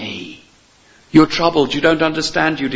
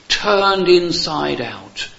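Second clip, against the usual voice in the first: drawn out, higher, each word weighted; slow, emphatic; 4 semitones higher, much slower than usual. Shown as a demonstration. Preacher explaining a word, slow and emphatic. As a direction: stretch the words out to show the meaning.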